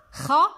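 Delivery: خروف in three spaced beats, رو held long; clapped syllables. Shown as a demonstration. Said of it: "بالتصفيق لدينا".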